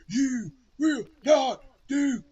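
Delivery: huge, slow wrestler boast; booming wrestler voice. Retold or imitated. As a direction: boom it out like a pro wrestler. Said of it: "he really talks in a wrestler voice".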